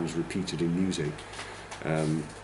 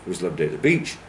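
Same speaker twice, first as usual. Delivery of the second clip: "It was a lovely day at the beach" in three beats, lower pitch; English stress timing; 4 semitones lower, much faster than usual. Shown as a demonstration. Teacher matches it to a count, three beats on "It was a lovely day at the beach". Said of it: "as to count to three".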